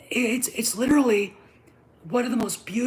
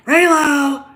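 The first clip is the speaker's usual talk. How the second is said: loud, higher scornful laugh on Reylo; mocking laugh; 8 semitones higher, 14 dB louder than usual. Real, not acted.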